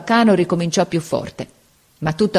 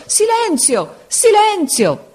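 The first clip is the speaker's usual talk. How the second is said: desperate shriek; much slower than usual. A narrator's reading. Supplente disperato urla alla classe, rabbia e pianto. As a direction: scream it, rage breaking into tears. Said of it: "gridava con voce di rabbia e di pianto".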